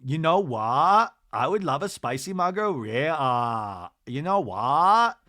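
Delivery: "what" with no final T, slow and drawn out; mock drawled "You know what" ending in "wha"; Lisa Barlow. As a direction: stretch "what" open, never closing the T. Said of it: "doesn't have time to pronounce the T's".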